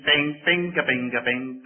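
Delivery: light tinkling "bing" noises in rhythm; ding like a little music box; imitated music box. Preacher describes his wife's music box, imitating its dinging. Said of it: "it dings out a little tune".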